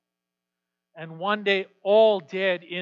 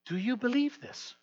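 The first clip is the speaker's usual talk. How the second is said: rising question; 6 semitones higher, 4 dB quieter than usual. Shown as a demonstration. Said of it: "same question asked twice".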